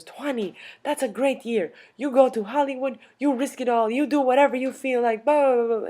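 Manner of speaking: put-on high, loud, rolling old European lady; gushing old lady. Old lady cheering twenty-year-olds on, high and loud. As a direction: rattle off encouragement as a little old lady. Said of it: "she was the cutest little old lady".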